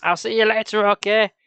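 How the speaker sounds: lightly voiced raspy mask voice; a hint of rasp behind a mask; deep raspy voice. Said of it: "her voice deep and raspy inside the mask".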